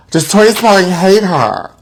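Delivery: gasp, then ask in mock horror; hammed-up scandalised gasp; gasping mock shock. Gossiping host gasps at celebrity feud news, mock shocked.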